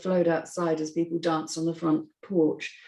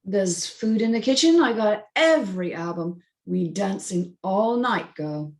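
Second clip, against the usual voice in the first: a light touch of a flirty host, a bit louder; Myron, flirty host; 3 dB louder than usual. Acted. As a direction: show off the party to her, easy and playful. Narrator voices Myron flirting.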